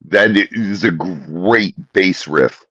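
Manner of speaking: mouth full. Real, not acted. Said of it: "It looks so much cuter with something in your mouth".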